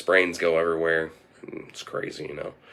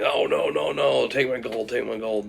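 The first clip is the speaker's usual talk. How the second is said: mock pleading; 5 semitones higher than usual. Gary begs goblin for his life.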